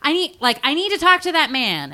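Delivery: high-pitched urgent plea, played up; mock freaking out. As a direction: plead like a panicking movie heroine. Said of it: "freaking out".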